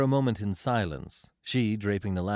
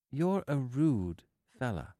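slow, higher-pitched woman's line; 4 semitones higher, slower than usual. A narrator's reading. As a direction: draw the words out slowly. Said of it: "she said slowly".

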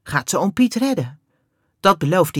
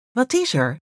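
kind voice; 7 semitones higher than usual. A narrator's reading. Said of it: "Haar stem is lief".

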